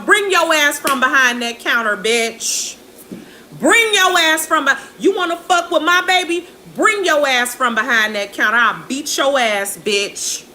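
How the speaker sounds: mock angry mom. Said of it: "And she told her".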